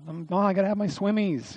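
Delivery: a hint of a whining kid; lightly mimicked child. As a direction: mimic a child insisting, pitch lifted. Voicing a child wanting swimmies.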